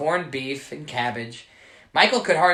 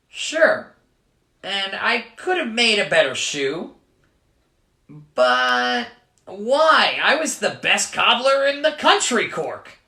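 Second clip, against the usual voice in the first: put-on light Irish accent; 6 semitones higher, 5 dB louder than usual. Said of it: "leprechaun voiced, Irish".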